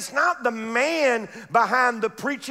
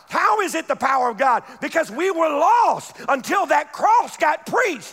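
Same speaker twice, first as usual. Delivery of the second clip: full-force preaching; 3 semitones higher than usual. Acted. Preacher testifying to the unbeliever, full-force preaching. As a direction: preach it out, building up.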